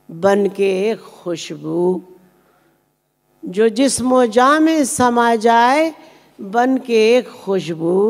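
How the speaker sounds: drawn-out phrase endings with rising and falling lilt; ghazal recitation. Acted. Poet reciting a requested ghazal to the audience, measured lilting recitation.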